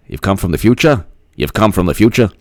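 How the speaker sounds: put-on half-hearted Boston accent, rising question; bad Boston accent. JFK questioning the time traveler, shaky attempt at Boston accent. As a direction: try a Boston accent and not quite get it. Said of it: "I can't do the Boston accent".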